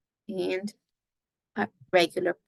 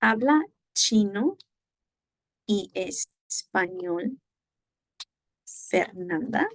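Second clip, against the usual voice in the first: habla chino y español drawn out slowly, rising on Fernanda; slow rising question tune; question intonation; slower than usual. Shown as a demonstration. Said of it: "pueden hacer la pregunta de".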